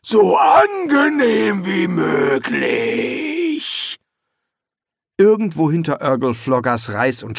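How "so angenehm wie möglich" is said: slow, drawn-out polite plea; overly polite. Acted. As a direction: stretch out the politeness. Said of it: "sagte Rincewind".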